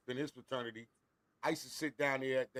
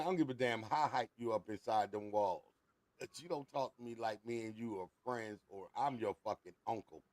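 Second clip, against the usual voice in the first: low, restrained telling-off; uncle's stern rebuke; 4 semitones lower, 4 dB quieter than usual. Retold or imitated. Uncle setting nephew straight, quietly stern. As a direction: quietly put the youngster in his place.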